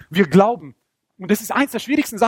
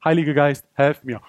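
low, sudden calm plea; simple prayer; 5 semitones lower than usual. Acted. Dreamer asking the Holy Spirit for help, low calm prayer. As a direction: drop low and ask for help. Plain short prayer after frenzy.

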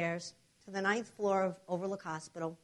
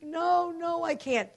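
higher-pitched pleading refusal; retold protest; 7 semitones higher, slower than usual. Patient refusing the doctors, retold protest. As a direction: push back in a high, insistent voice.

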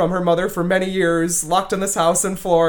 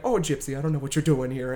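softer, badly faked Southern accent; 3 semitones lower, 6 dB quieter than usual. Host retrying the mother in The Act, Southern accent. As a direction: try a Southern mother's voice, quietly. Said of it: "but it's Southern, like".

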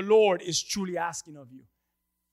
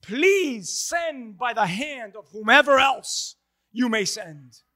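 loud, slow plea to the Lord; mild hammed-up begging; pleading Moses; 4 dB louder, slower than usual. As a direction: beg to be spared. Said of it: "he says".

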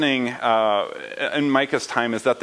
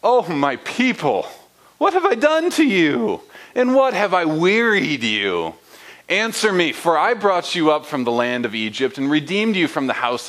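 God pleading with his people. Acted. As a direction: voice God asking his people what he did wrong. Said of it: "Notice the inflection here".

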